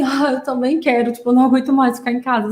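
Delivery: frank, fed-up agreement; reenacted candid "me too"; super sincere. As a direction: own up to it wholeheartedly, speeding up. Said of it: "super sincero, de tipo assim".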